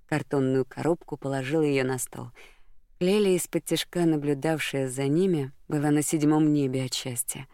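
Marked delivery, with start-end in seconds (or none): none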